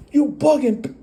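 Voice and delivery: dismissive. Retold or imitated. He repeats.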